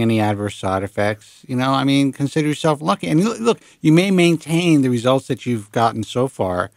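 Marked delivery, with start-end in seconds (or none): none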